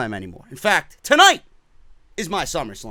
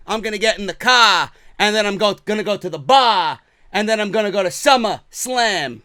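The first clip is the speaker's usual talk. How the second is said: toned-down mock Boston accent; lightly put-on Boston accent; awful Boston accent. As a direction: try the bad Boston accent in a near-normal voice. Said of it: "Awful fucking Boston accent, I know".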